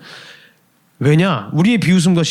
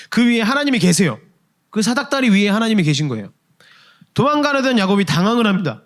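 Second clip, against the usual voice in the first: ordinary talk, nothing marked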